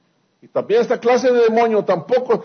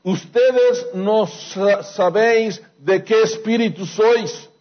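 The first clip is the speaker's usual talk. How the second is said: slow, weighty reading of Jesus' rebuke; preacher quoting Jesus to the disciples, slow and solemn; solemn scripture quote; slower than usual. Retold or imitated. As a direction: deliver the rebuke slowly and gravely. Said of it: "Qué les dijo Jesucristo".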